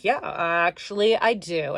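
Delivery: low, cool and matter-of-fact yeah; cool comeback. Retold or imitated. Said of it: "I said it just like that".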